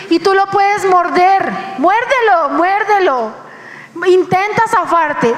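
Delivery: challenging dare. Real, not acted. Preacher dares listeners to fight God's grip, insistent. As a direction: dare them, go ahead and bite.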